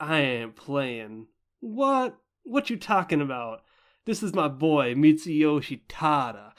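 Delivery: put-on, over-the-top, swooping hype man voice. Speaker describes a narrator, imitating him acting so extra. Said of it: "he acts so extra and he's like".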